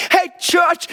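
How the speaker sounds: calling out. Real, not acted. Preacher calls out to his church to wake up, loud rallying call. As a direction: rouse the whole room.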